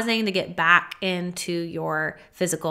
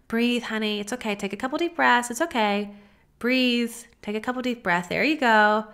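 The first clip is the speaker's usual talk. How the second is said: soothing parent. Pretend. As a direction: gently talk a toddler through a meltdown. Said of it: "offering yourself sort of this parental caretaking".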